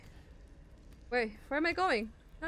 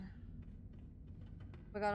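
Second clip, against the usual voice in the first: whisper; 14 dB quieter, much slower than usual. Real, not acted. Creeping through bloody room.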